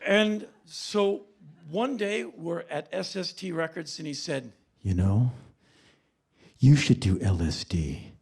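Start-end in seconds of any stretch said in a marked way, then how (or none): 4.8-8.1 low mock-intellectual suggestion; deep cerebral bandmate. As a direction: drop low and sound knowing. Bandmate's advice voiced in story.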